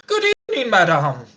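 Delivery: a gentleman tipping his hat to an alley cat; polite greeting to a cat. Retold or imitated. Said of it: "Talking to the cats".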